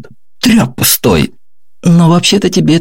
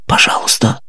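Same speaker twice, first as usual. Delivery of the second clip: breathless whispered plea; pleading; 4 dB quieter than usual. Acted. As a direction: beg in a frightened whisper. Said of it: "взмолился пленник".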